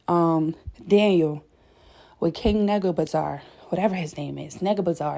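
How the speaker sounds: slightly out of breath, pacing; breathless from pacing around. Real, not acted. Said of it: "I feel like I'm out of breath".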